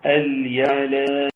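slow, melodic tajweed chant; teacher chanting the verse with full elongations; Quranic recitation. Acted. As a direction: draw each vowel out in a measured chant.

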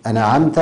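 أنعمت with an extra a after n; vowelled nūn. Shown as a demonstration. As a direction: say أنعمت as "ana'amta". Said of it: "خطأ جلي".

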